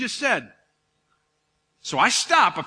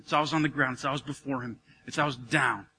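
low, much softer repeated confession; hushed emphasis; 6 semitones lower, 6 dB quieter than usual. Real, not acted. Preacher showing prostration, low and hushed. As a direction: sink the voice down low. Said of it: "prostrate repetition".

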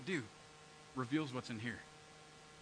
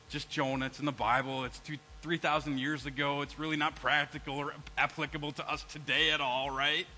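mock-serious sarcastic aside, lower; sarcasm; 5 semitones lower than usual. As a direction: say it deadpan, not meaning a word. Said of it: "That's called sarcasm".

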